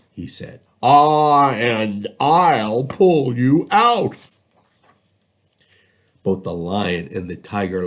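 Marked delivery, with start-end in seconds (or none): 0.8-4.2 high, loud, slow elephant voice; kindly elephant. Acted. Elephant offering its trunk to the trapped cats, high and slow. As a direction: reach down and reassure them, slowly.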